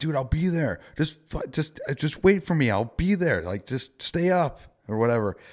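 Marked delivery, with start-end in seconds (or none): 0.0-3.4 insistent high yelling. Retelling a call from a buddy while his truck was towed, retelling own yelling. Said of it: "And I'm yelling at my friend".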